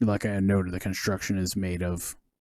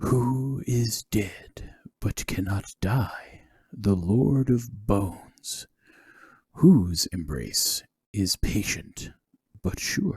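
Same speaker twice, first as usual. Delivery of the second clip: eerie, ghastly, ghostly voice. A narrator voices a voice that speaks to the listeners in an entryway, ghastly voice. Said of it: "a voice speak to you in a ghastly voice".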